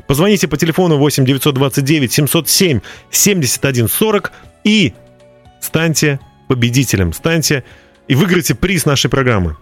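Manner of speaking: infomercial. Acted. Radio host promo read.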